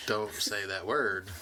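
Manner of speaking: lightly imitated slow, labored speech; a slight imitation of halting speech; niece's slow speech. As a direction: draw the words out slowly, imitating her. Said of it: "she couldn't speak very well".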